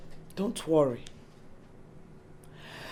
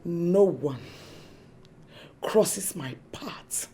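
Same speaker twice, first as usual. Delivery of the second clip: menacing whisper; 2 semitones lower than usual. Acted. Schemer threatening rivals, menacing whisper.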